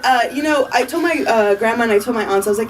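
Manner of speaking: ordinary delivery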